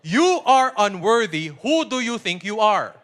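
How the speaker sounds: slow, loud scornful put-down; condescending rebuke. Retold or imitated. Preacher quoting a suppressive rebuke, slow and scornful. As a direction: look down on him as you say it. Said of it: "Careful of these statements".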